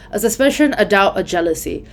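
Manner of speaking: reading the line with stressed words marked. Shown as a demonstration. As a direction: lean on suspicion, doubt and jealousy. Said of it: "Suspicion, doubt, and jealousy are the stressed ones".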